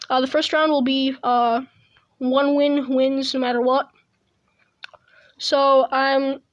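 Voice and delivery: talking while chewing gum; words around a wad of gum. Real, not acted. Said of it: "sorry about the chewing noise".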